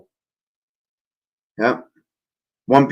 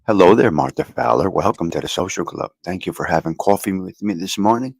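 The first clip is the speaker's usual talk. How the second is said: rough, tired hoarse voice; 6 semitones lower than usual. Real, not acted. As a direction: voice hoarse after a long night. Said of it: "So my voice is a little off".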